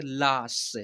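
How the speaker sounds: लाश with a long drawn-out आ; pronunciation demo. Shown as a demonstration. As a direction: model लाश slowly as one stretched syllable. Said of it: "ऐसे उच्चारण करेंगे". (लाश को आ खींचकर बोलना)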